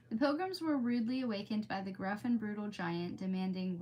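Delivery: measured storytelling read; steady read-aloud voice; story narration. A narrator's reading. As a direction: read it like a bedtime story to listeners. Reading a story aloud to viewers.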